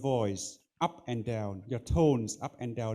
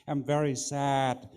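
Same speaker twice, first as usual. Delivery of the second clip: slower, leaning into very with a touch of sorrow; acted sadness. Shown as a demonstration. Judge coaching a young speaker, demoing a slower touch of sadness. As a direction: say it as if you really feel sad. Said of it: "try to act as if you are sad".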